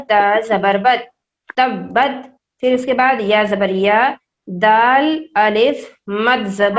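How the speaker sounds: put-on slow spelled-out تب زبر تب for children; spelling out. Shown as a demonstration. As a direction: sound out تب letter by letter. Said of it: "پھر سے ایک بار پڑھتے ہیں ہم".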